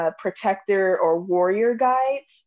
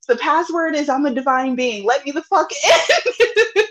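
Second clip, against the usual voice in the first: mock divine decree; 4 semitones higher than usual. Acting spirit's password demand.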